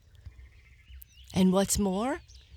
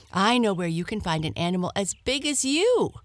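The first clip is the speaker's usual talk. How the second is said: eager hare; 3 semitones higher, 4 dB louder, much faster than usual. Acted. Hare persuading the lion.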